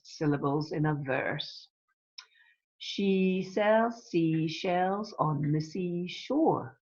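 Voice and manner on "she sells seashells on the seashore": very slow, drawn-out tongue twister; tongue twister demo. Shown as a demonstration. Teacher asks class what sound they hear, slow demo. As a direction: stretch each word so the sounds can be heard. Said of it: "What sound can you hear?".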